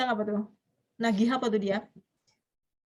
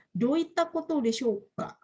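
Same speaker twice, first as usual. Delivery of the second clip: slow polite example; 3 semitones higher, slower than usual. Shown as a demonstration.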